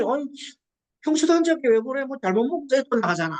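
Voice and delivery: lightly voiced husband grumbling back; husband's complaint. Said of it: "그 남편이". (아내에게 투덜대는 남편, 약간 크고 높게)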